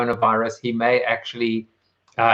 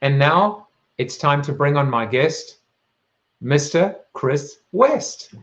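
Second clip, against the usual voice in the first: show host introduction. Acted. Host theatrically introduces his guest.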